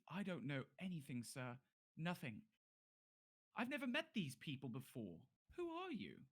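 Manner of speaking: high, anxious guard rising to a squeak; nervous denial. Acted. Guard protests to captain he knows nothing, high and nervous. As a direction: protest innocence, pitch climbing.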